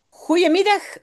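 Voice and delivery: high, loud parrot call of Goedemiddag. Acted. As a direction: squawk Goedemiddag like a parrot greeting. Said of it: "roept hij". (cri de perroquet aigu et fort : Goedemiddag)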